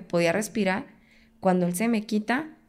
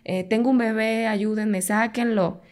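retold cry for help; 3 semitones higher than usual. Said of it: "Yo empecé a gritarles a los vecinos".

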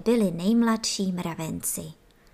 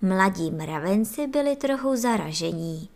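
usual speaking voice

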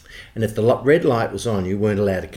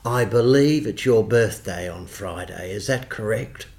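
imitating the boss. Boss quizzing office boy about birthday, lightly imitated formal voice. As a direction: lightly put on his employer's measured tone. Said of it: "So he'd speak like it".

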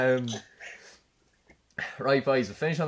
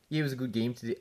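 put-on rough stab at a Scottish footballer's accent; attempted Scottish accent; 6 dB quieter than usual. Lad trying Andy Robertson for his mates, shaky Scottish accent. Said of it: "I'll try to do a Scot".

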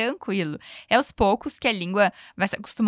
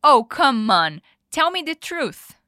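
loud indignant oh then firm demand; 3 semitones higher, 5 dB louder, slower than usual. Shown as a demonstration. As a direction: protest like you were lied to. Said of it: "a frase toda do Noah indignado". (Noah indignado, exigindo a verdade)

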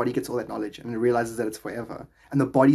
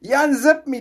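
acted patient; 12 semitones higher, 6 dB louder than usual. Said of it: "he's like".

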